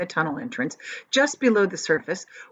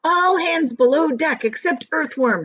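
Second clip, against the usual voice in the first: higher, louder captain's order; 8 semitones higher, 5 dB louder than usual. A narrator's reading. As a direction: give the command firmly. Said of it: "he ordered".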